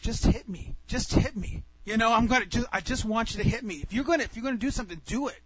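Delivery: worked-up retold challenge; mad, goading. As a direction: goad him into taking a swing. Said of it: "I'm mad".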